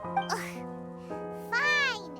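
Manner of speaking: exasperated groan, then giving in; grudging. Acted. Pupil told to address magician as teacher, grudging. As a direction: give in with a put-upon groan.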